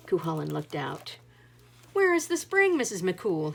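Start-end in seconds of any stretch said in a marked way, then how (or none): 1.9-3.5 higher, louder booming question; a big man calling out his question; loud hearty giant voice; giant asking. A narrator's reading. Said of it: "he asked".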